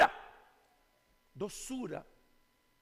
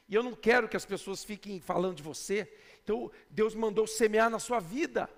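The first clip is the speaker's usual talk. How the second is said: gentle, tactful tone; 5 semitones lower than usual. Retold or imitated. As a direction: coax her kindly. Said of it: "você mudou a forma de falar".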